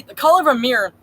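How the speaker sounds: mock nerd voice. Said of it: "Stop mocking me".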